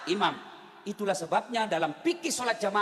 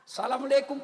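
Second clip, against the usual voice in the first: mock forceful salam; 2 semitones higher than usual. Worshipper with smelly breath ending prayer, forceful mock salam. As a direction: send the greeting out firmly. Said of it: "kencang betul".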